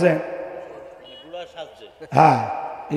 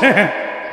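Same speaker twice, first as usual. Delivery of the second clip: chuckle; 3 dB quieter than usual. Real, not acted. Chuckles after bearded-man remark.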